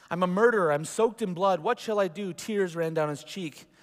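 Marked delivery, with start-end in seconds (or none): 0.1-2.3 anguished cry. Acted. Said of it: "and he sobbed".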